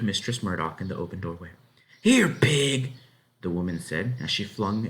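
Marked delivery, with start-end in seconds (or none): 2.0-2.9 louder, higher call; calling the pig. A narrator's reading. Farm wife flings the loaf out to the pig, calling.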